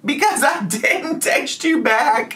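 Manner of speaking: mock him again and crack up; imitating the ex high and slow while laughing; laughing mockery.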